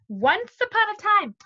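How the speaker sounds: high, lilting storybook opening; verhalende voorleestoon. A narrator's reading. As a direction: open the tale with a bright rise and fall in pitch. Starts reading the story aloud.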